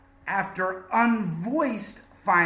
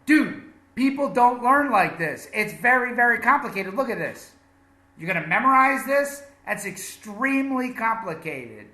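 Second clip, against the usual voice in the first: loud, high-pitched protest; exasperated outburst, raised in pitch and volume; 4 semitones higher, 6 dB louder than usual. Real, not acted. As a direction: complain in animated disbelief. Mock-exasperated complaint about the method.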